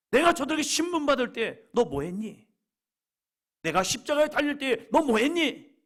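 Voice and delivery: high, loud accusing questions; acted reproach. Jesus imagined confronting Peter over his desertion, acted reproach. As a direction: scold him, pressing harder with each question. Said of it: "하면서 책망하지 않았어요".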